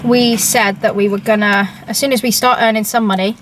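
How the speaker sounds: talking with a mouth full of food. Real, not acted. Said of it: "I forgot about my food for a second".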